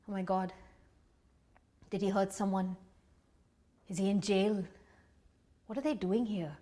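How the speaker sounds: soft, anxious inner questions; hushed dread. Acted. Mother seeing a police car outside her house, hushed dread. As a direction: think it aloud, barely voiced.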